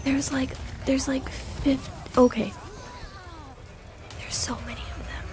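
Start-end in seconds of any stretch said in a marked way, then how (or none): 4.2-5.3 near-whisper, much softer; hushed, whispery and overwhelmed; hushed dismay. Real, not acted. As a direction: say it under your breath, overwhelmed. Overwhelmed, repeats it under breath.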